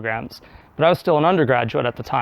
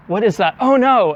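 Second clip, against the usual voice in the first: retold panic; 6 semitones higher than usual. Seeing cow on the road.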